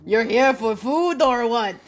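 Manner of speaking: put-on French-accented bartender. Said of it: "Aggressively French".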